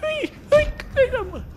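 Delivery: very high, loud squeal. Real, not acted. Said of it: "fico gritando igual uma menininha".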